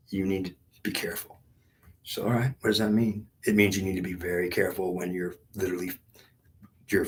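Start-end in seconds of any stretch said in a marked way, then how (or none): 0.1-1.4 hushed, breathy warning with no voice; whispered warning. Retold or imitated. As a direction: drop to a whisper to caution. Retold warning from God, whispered.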